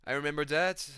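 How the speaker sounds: lightly voiced fighter, slipping off target; attempted GSP impression. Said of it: "G S P's like".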